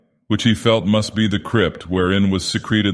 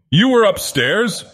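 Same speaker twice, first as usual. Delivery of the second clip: growled; slower than usual. Acted. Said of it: "growled Tussman".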